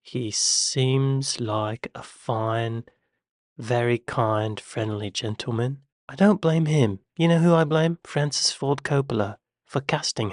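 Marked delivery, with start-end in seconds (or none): 0.0-5.8 slow, gentle and earnest; drawn out like a heartfelt tribute; sincere. Real, not acted. Defending Keanu Reeves, slow and sincere.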